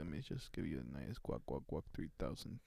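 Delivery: low, soft monotone. Shown as a demonstration. Offering a nice guac in demo, low monotone. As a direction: keep it deep, quiet and level. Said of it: "like, monotone real quick".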